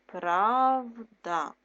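Правда said loud and clear; emphatic first reading. Shown as a demonstration. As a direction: say Правда firmly, like dictating. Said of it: "word read twice, first loud".

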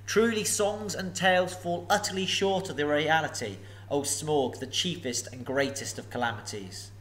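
a hint of nervous courtesy; polite hobbit. Bilbo flatters the dragon.

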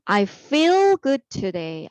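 slow, clear teacher read of the sentence; slow model reading. Shown as a demonstration. Teacher modelling the answer to students, slow. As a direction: model it slowly for the class. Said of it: "나는 오늘 기분이 좋아".

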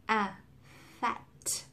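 fat with a clear open A; correct fat. Shown as a demonstration. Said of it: "thực ra nó chỉ là A". (đọc fat đúng với âm A)

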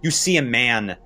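dramatic narration. A narrator's reading. Game master revealing a crushed man's injuries to players, dramatic and grave. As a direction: draw out the gruesome reveal with pauses.

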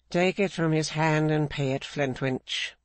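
lightly voiced stern mistress giving an order; Mrs Clennam. Mrs Clennam ordering Flintwinch to pay, lightly voiced stern woman. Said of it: "said Missus Clennam".

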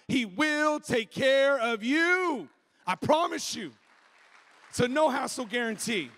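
emphatic, rousing sermon delivery; punchy pulpit proclamation; preaching. Real, not acted. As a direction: preach it to the whole room with conviction.

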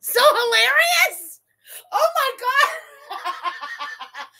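high, loud, slow mocking repeat; mocking echo. Mocking the guide's comment to chat, loud and high. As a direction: throw the guide's words back, loud and drawn out. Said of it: "You're not supposed to say it was so hilarious".

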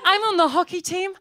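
put-on bright, peppy head-girl voice; imitating perfect schoolgirl. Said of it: "She was like".

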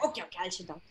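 duckling sulkily obeying Grandmama; sulky giving in. A narrator's reading. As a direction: give in under your breath. Ducky grudgingly giving in.

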